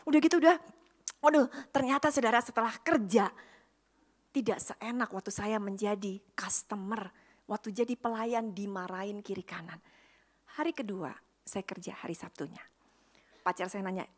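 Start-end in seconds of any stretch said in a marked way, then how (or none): 4.3-9.8 rueful whispered aside. Real, not acted. Admitting the job was hard, whispered aside. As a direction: breathe it like a confession.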